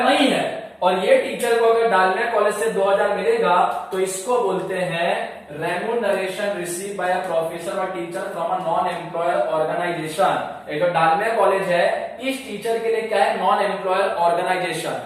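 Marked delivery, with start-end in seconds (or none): 5.5-10.4 slow dictation. Shown as a demonstration. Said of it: "government क्या बोलता है".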